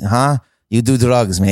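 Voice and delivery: put-on thick-accented, broken-English dad. Dad confronting his son about drugs, thick foreign accent. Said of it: "He's like, thick accent".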